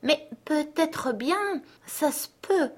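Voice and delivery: high, slow, croaky crow voice; a pondering crow, drawn out; a thoughtful crow, high and slow. A narrator's reading. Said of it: "La corneille hochait la tête".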